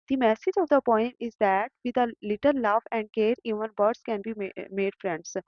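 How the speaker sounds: reading the answer very slowly and clearly; slow dictation read. Shown as a demonstration. Teacher dictating workbook answers to students, slow and clear. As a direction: spell it out word by word for students to copy.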